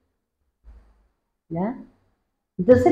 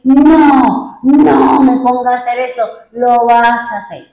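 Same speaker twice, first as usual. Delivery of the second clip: retold protest; 5 dB louder than usual. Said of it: "Y yo dije".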